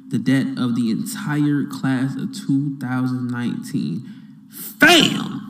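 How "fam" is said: excited shout. Real, not acted. Excited reaction to news.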